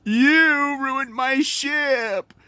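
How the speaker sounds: mock the bratty ghost pirate; whiny Flying Dutchman. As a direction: kid hamming up a sulky ghost. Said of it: "he's always like".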